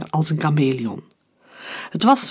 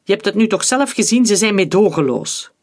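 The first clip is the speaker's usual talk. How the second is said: higher, fast and urgent, pressing the point; urgent pleading; 4 semitones higher than usual. Acted. Director warns the young soldier, higher, fast and urgent. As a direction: rush to convince him of the danger. Urgent warning while fleeing warriors.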